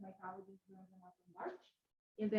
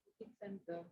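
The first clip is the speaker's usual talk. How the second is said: faint, off-mic voice; speaking too far from the microphone; 13 dB quieter than usual. Real, not acted. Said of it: "We are not able to hear you very well".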